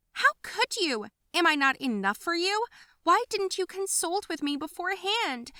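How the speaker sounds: high, loud, hurt yelling at parents; shrill tantrum of a jealous child; furious outburst. Acted. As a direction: scream your betrayal at them. Girl bursting with anger.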